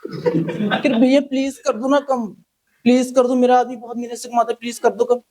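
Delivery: fake-cry to get a discount; hammed-up tearful haggling; mock pleading woman. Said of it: "फिर वो रोने लगी".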